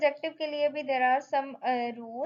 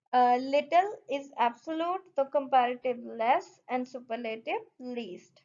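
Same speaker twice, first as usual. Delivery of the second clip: reading the rule out slowly for notes; slow, careful dictation pace; spelling out a definition for the class; much slower than usual. Shown as a demonstration. Slowly listing irregular forms.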